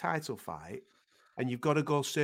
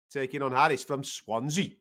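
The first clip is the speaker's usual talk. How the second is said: badly faked Swansea Welsh accent; terrible Swansea accent. Presenter naming the Welsh fighter's town, bad Swansea accent. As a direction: say it in a poor Welsh lilt. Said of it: "Terrible accent. I apologise".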